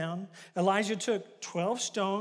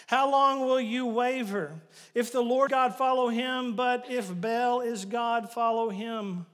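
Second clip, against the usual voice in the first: preaching challenge; 6 dB louder than usual. Acted. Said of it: "preacher repeats the challenge loudly".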